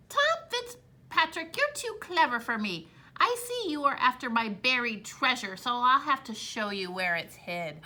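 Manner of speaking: a sly little leprechaun giving in. Acted. Leprechaun gives in.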